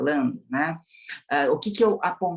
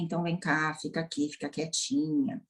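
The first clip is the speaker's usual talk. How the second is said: softer, gentle hush to a crying wife; soothing husband; 5 dB quieter than usual. Retold or imitated. Husband comforting his crying wife, softly soothing. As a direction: coax her to stay close and calm. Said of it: "ele vai falar assim".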